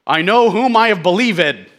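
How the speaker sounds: odd syllable stress as in the song, loud; odd song emphasis. Shown as a demonstration. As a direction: stretch "believed" with the song's misplaced emphasis. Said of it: "they do weird things with the pronunciation".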